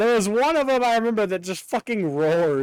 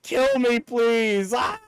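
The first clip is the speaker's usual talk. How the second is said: mock pleading scream; 4 semitones higher, much slower than usual. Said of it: "He's like".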